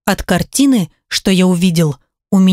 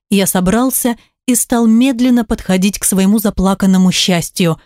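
plain reading voice

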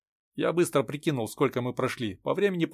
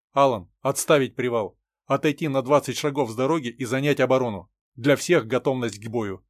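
commanding, louder; firm loud order; 5 dB louder than usual. Acted. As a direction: bark out battle orders. (твёрдый громкий приказ)

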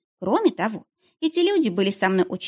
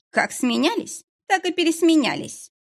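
curt retort; 9 semitones higher than usual. A narrator's reading. Woman cutting off the visitor, curt snap. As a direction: cut her off. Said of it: "отрезала женщина".

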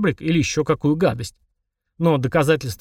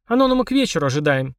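sarcastic. Acted. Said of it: "язвительно".

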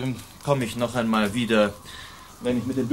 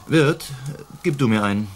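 calling out; 5 semitones higher, 3 dB louder than usual. Acted. Calling innkeeper across tavern.

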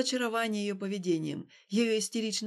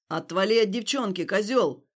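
rough threat; 2 semitones lower, 5 dB louder than usual. Acted. Passer-by threatening Stas.

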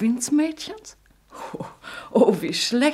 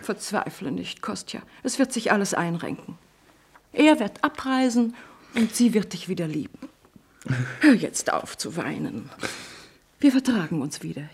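put-on calm him like a child; mother comforting her weeping son; soothing; 3 semitones lower than usual.

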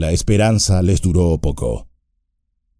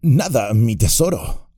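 Gollum voice; 3 semitones higher than usual. Acted. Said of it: "añadió".

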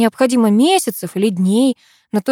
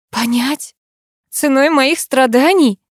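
higher, incredulous indignation; indignant flare-up; 7 semitones higher, 4 dB louder, slower than usual. A narrator's reading. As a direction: flare up, drawing out the reproach. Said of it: "Взвилась я с подоконника". (возмущённо взвиться)

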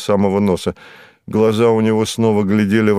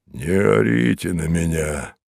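put-on lower, soothing old-grumbler protest; peaceable; 3 semitones lower, 4 dB quieter than usual. A narrator's reading. Mozes to the narrator who ordered him out, peaceable. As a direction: ask it mildly, in a low placid voice. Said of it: "неожиданно миролюбиво предложил Мозес".

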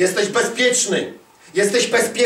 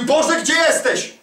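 higher, drawn-out imitated cry; mock plea to God; 6 semitones higher, slower than usual. Preacher imitating a believer calling on God, mock plea. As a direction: call up to God as a troubled believer, lightly acted.

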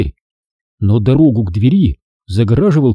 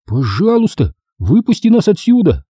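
pleading; 8 semitones higher than usual. A narrator's reading. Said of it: "умоляюще протянул я".

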